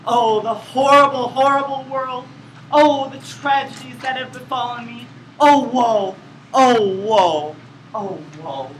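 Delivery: hammed-up tragic wailing, fading away at the end; melodramatic lament. Shown as a demonstration. Actor flings himself into a tragic duet scene, melodramatic lament. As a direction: overplay the woe like bad theatre. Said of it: "begin the scene by".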